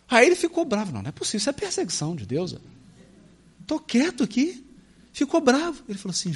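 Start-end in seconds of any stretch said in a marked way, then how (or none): 0.9-4.7 indignant grumble. Acted. Jonas complaining angrily.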